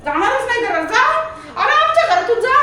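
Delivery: loud, high-pitched telling-off; scolding. Pretend. Owner throwing the dog out of the house, scolding loudly. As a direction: order him out, voice climbing to a shout.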